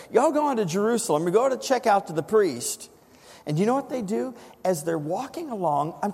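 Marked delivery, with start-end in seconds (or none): 0.1-2.9 playful Southern phrasing, pitched higher; Southerner. Pretend. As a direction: send them off like a Southerner. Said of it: "that's how he would say it if he's a Southerner".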